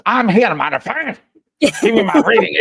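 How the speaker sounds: high, loud mock yell; loud acted outburst. Host answering as Denise for the reading, loud and high. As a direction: call out as the missing guest.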